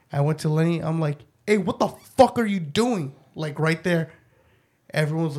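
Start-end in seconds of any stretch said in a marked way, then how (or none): 1.5-3.1 higher-pitched mock telling-off; retold scolding. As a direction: replay confronting a misbehaving child. Parent confronting child in story.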